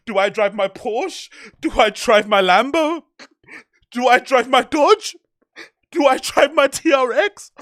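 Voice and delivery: hammed-up sob story; mock crying rich guy. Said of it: "now you're shy, biting your bottom lip".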